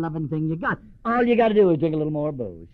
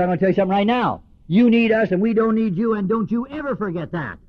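louder, blunt and fast; stern sponsor telling him off, louder; hard-hearted sponsor; 5 semitones higher, 5 dB louder than usual. Retold or imitated. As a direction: lay down the law to a newcomer. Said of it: "Hard-hearted sponsor".

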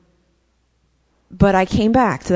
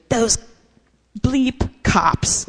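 mom blaming cops; 5 semitones higher, much slower than usual. Retold or imitated. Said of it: "she was blaming, totally blaming the cops".

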